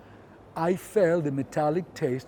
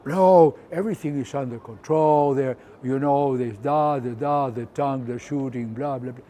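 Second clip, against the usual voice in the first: in this tone. Retold or imitated. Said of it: "in this tone".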